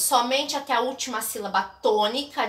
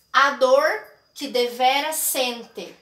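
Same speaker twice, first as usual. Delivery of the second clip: slow scansion reading; 5 dB louder, slower than usual. Shown as a demonstration. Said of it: "a gente precisa falar pra ouvir o som".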